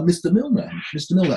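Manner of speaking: retold manager in a light Indian accent; lightly put-on Indian accent, calling politely. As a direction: attempt an apologetic amateur's Indian accent. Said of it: "apologies for my Indian accent".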